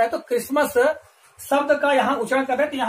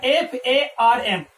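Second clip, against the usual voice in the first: 1 slow spelling out; much slower than usual. Shown as a demonstration. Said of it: "आपकी exercise में दिया है".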